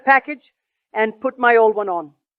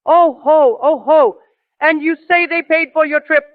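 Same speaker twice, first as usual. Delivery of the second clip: mild mocking laughing roar of a father; 4 semitones higher than usual. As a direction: scoff and boom it a little, mocking. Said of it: "he roared".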